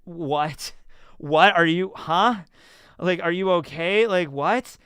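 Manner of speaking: retold shock. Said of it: "And I'm like".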